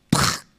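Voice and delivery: short explosive "pah"; choque imitado. Retold or imitated. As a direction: imitate smacking into a wall. Imita el golpe contra la pared. (golpe seco imitado con la boca)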